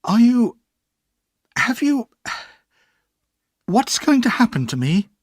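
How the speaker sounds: put-on a child working up courage; boy asking bravely. A narrator's reading. Boy bravely asks his aunt his fate. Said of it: "I bravely asked my aunt".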